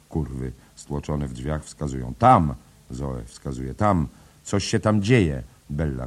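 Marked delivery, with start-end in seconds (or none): 2.2-2.5 loud, high "there!"; excited shout. A narrator's reading. Whores point and shout. 3.7-5.4 loud, higher pointing out; urgent, breathless call; excited cry. A narrator's reading.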